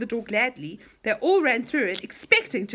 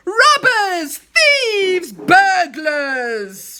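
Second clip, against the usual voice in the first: high, loud furious yell; angry shout; 8 semitones higher, 11 dB louder, much slower than usual. Acted. Enchanter shouting at the children in his cellar, loud and high. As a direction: bellow at the intruders. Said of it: "shouted the enchanter in a loud voice".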